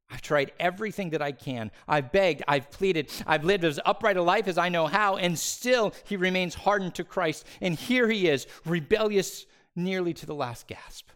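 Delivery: pleading cry. Acted. A believer pleading with God over a dying relative, loud desperate cry. Voicing anguished prayer to God.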